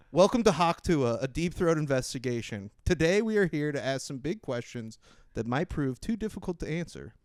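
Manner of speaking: formal documentary intro. Acted. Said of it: "like you're introducing her and she's about to win the Mark Twain Award".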